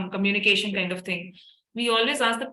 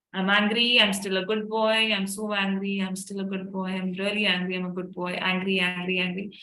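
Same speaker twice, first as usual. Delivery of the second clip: simple repeated affirmations, plainly voiced; tapping statements. Shown as a demonstration. Mother demonstrates tapping statements for her angry son, gently repeated. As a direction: chant the lines gently, as you tap. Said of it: "So this is how I do it".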